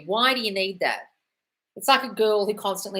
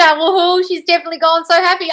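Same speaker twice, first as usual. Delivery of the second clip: high, loud excited squeal; gleeful woohoo; 11 semitones higher, 11 dB louder than usual. Real, not acted. Reading a fan's news, squealing with joy. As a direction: burst out with giddy delight.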